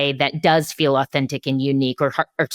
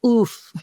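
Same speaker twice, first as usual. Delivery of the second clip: higher, pained-sounding "oof" breaking into a laugh; wincing oof; 9 semitones higher than usual. Acted. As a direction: react to a bad miss with an oof. Mock reaction to brands' mistakes.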